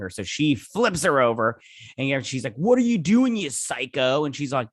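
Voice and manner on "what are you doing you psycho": high, loud burst on the question, then dropping; retold outraged protest. Retelling a hockey player flipped over by Courtney, outraged protest. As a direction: act out an indignant yelp.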